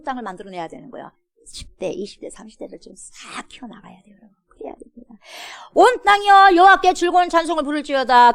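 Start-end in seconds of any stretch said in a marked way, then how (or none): 1.4-5.1 hushed whisper to the congregation. Real, not acted. Preacher drops to whisper. 5.7-8.3 verse cried out high and loud; loud proclamation. Shown as a demonstration. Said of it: "근데 보세요".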